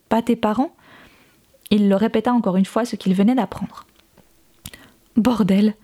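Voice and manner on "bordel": a breathy whispered curse; the daughter whispers a swear in awe. A narrator's reading. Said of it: "s'exclama Constance".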